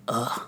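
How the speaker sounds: short, soft groan of frustration; a quiet retold "ugh", softly fed up; frustrated groan. Podcaster showing how she walked in, frustrated groan. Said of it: "I'm just all frustrated".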